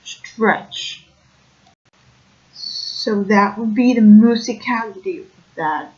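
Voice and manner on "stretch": "stretch" said as "shtretch" with a hushed SH onset; Brooklyn ST sound. Shown as a demonstration. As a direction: Brooklyn style shift of S before T. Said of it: "something like".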